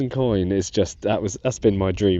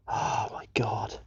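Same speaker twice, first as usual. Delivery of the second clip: breathless whispered oh my God; hush, stunned by what's in the dirt; awed whisper; 7 dB quieter, slower than usual. Real, not acted. Detectorist first spots the coin, awed whisper. Spotting a possible Saxon coin.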